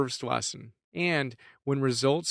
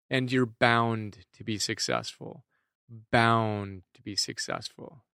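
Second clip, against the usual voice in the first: slow, measured hint of a Burmese accent; lightly imitating a Burmese teacher's steady cadence. Meditation teacher guiding students, lightly Burmese-accented and slow. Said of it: "in his beautiful Burmese accent".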